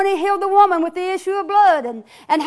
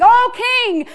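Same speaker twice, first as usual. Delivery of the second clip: higher pleading call; hollering prisoner; 4 semitones higher than usual. Acted. Prisoners hollering for the king, mild higher plea. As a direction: beg the king to hear you out. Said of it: "hollering for the king".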